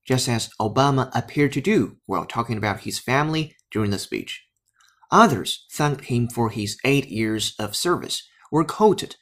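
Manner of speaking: steady English news reading. Acted. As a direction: deliver it as a broadcast report. Reads English news text. (英语新闻朗读)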